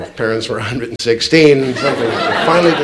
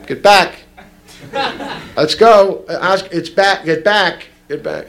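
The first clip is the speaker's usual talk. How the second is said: calling out; 4 semitones higher, slower than usual. Retold or imitated. Lifeguard calling to the kid.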